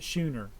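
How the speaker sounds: Schooner said with a soft SH start; sh pronunciation. Shown as a demonstration. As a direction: say Schooner as "SHOO-ner". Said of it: "Is it schooner or schooner?".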